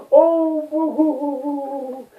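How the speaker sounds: mock cheer. Mock cheering about first world problems.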